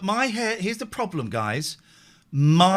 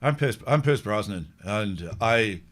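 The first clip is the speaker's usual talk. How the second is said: lightly Irish Pierce Brosnan voice; a hint of an Irish lilt; Irish accent; 6 semitones lower than usual. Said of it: "I know I'm doing an Irish accent".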